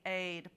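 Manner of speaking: aid said alone as the rest of made; rime segment. Shown as a demonstration. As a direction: give aid as the ending chunk. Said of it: "the rest of the word".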